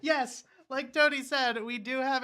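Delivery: laughing. Real, not acted. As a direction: still chuckling as you speak. Still laughing after joke.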